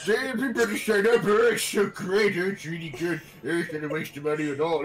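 fast, high mock enthusiasm; sarcastic hype. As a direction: oversell it with mock cheer. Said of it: "you have to be like".

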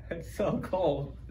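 chewing a fry; talking while eating; mouth full. Real, not acted. Seen 0: Both men eat fries; unclear who speaks, chewing seen.

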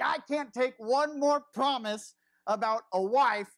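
slow, self-pitying whine; a mock-sulky whine about the wife promises; whiny complaint. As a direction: moan it like you're fed up. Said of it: "And I'm just like".

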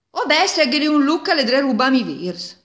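high, loud angry yelling; furious shout. Acted. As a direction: bellow at the thief in a rage. Peasant catches thief, grabs rifle. (urla furiose)

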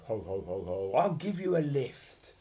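a hint of a jolly Santa laugh; Father Christmas chuckle. Santa offers the lost fairy a lift, jolly chuckle. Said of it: "Father Christmas chuckled".

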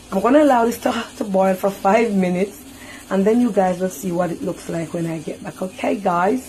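Jamaican speaker's careful standard English; put-on English, spelled out for the viewers. Real, not acted. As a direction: switch out of Patois into proper English. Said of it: "In my English voice".

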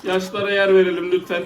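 high mock public call; playful announcement. Playfully clearing way for elderly. (şakacı, tiz anons)

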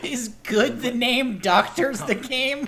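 soft questioning try; quiet tentative. Pretend. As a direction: test the phrase quietly. Quiet first try of the line.

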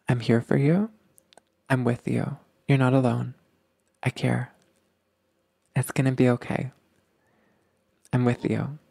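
calm and comforting; gentle reassurance. Shown as a demonstration. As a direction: say it tenderly, like holding their hand. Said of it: "That's what we wanna say".

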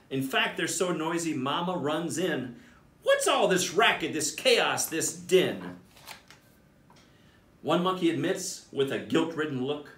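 put-on lively storybook reading for kids; animated bedtime-story narrator; read-aloud narration. A narrator's reading. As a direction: read it like a picture book to a class. Principal reads picture book aloud.

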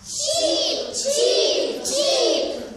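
dainty high chick cheeps; polite chirps. Acted. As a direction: chirp neatly like well-behaved chicks. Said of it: "con garbo".

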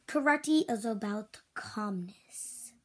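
slow, voiceless whisper; calm whisper. Acted. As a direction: hush it like a calm master. Teacher explaining calmness.

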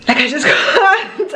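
laughing. Real, not acted. Overwhelmed with happiness, laughing.

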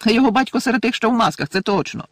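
high, loud angry cry; furious outburst. A narrator's reading. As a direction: spit it out in rage. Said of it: "люто вигукнув Рон".

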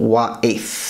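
WA'ITH with w first and th last; careful demo of Wa'ith, soft th; soft th ending. Shown as a demonstration. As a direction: end Wa'ith on th, not t. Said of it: "gives it the soft Th".

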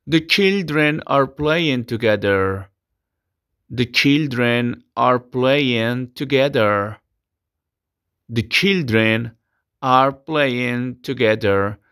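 slow, clear sentence for repetition; slow English teacher model. Shown as a demonstration. Teacher dictates the model sentence to students. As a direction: articulate each word for the class.

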